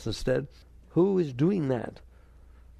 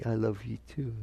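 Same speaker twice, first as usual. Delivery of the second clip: soft, low "I love you too"; quiet, tender answer; hoped-for reply; 3 semitones lower, 4 dB quieter than usual. Shown as a demonstration. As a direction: say it gently and sincerely, voice lowered. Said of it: "They're supposed to say".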